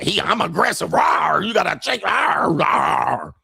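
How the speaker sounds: high, growly shouted caricature; imitating someone aggressive with exaggerated rawrs; mock aggressive woman. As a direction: roar like a hammed-up angry monster. Mimics the aggressive woman, roaring.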